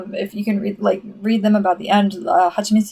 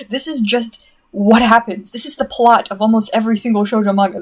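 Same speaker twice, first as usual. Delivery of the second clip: raised, emphatic fan rant; exasperated rant; 3 semitones higher, 3 dB louder than usual. Real, not acted. Fan ranting about an overused shoujo trope, exasperated. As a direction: rant in laughing disbelief at a cliché. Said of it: "there's my rant".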